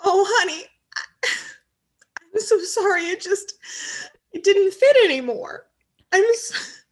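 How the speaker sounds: high, fluttery apology; high apologetic voice. Acted. Wife apologizing in character.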